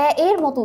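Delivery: এ said open, as in English "cat"; open e sound. Shown as a demonstration. Teacher explains the shifted vowel, open e sound. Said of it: "উচ্চারিত হয়".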